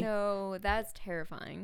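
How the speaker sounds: teary-eyed from a real scare; eyes watering. Real, not acted. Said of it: "Oh, my eyes are watering".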